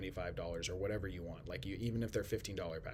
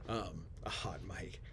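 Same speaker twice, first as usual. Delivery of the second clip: whisper; 5 dB quieter, slower than usual. Pretend. Whispering hot mic joke.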